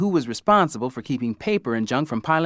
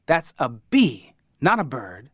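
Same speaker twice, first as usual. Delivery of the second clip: offended; slower than usual. Retold or imitated. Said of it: "she was highly offended".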